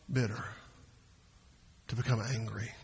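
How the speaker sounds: normal talking voice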